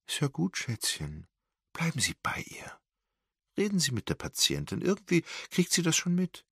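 lightly voiced nurse, soothing; gently calm a distraught relative; kind and pitying. A narrator's reading. Nurse comforts Wendy kindly, with gentle pity. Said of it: "freundlich und mitleidig zugleich".

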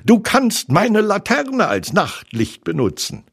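high, helpful tiger voice; Tigger. A narrator's reading. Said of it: "sagte Tigger".

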